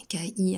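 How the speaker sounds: "K I" as ka-I, weight on the I; "K I" in two syllables, the second stressed. Shown as a demonstration. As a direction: lean on the final "I" of "K I". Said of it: "accent sur le I".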